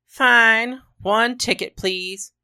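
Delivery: high-pitched traveller ordering; customer giving in. A narrator's reading. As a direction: agree up high and buy the ticket. Imagined woman buys her ticket.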